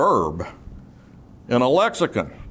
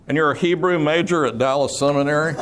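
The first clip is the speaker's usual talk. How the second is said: amused storytelling; 4 semitones higher than usual. Real, not acted. Amused memory of seminary nights.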